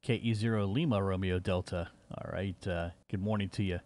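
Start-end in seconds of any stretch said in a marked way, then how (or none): none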